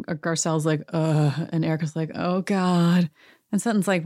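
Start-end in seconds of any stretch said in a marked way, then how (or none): 0.9-1.5 short mock groan of dread; imitated groan. Woman seeing an unwelcome guest approach, imitated groan. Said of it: "the women are groaning". 2.1-3.1 mock groaning dread; imitated groan. Woman watching an unwelcome guest walk over, imitated groan. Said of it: "the women are groaning".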